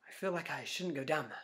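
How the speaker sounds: hushed whisper; wary whisper at a dark alley. Retold or imitated. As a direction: whisper it as if the alley could hear.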